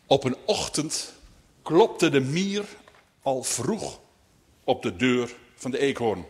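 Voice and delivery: measured storytelling, phrase by phrase; read-aloud tale opening; story narration. A narrator's reading. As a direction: tell it to children with pauses. Reads a story to children.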